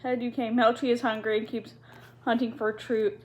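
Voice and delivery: young girl worried about the rat, lightly voiced. Ermengarde voiced.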